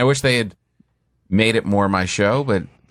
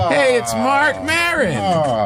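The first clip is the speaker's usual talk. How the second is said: announcer voice; 12 semitones higher, much slower than usual. Pretend. Joking voice intro.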